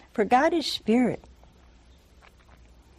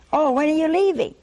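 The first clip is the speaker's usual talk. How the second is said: breezy dodge; 6 semitones higher, 4 dB louder, faster than usual. Retold or imitated. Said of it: "they change the subject".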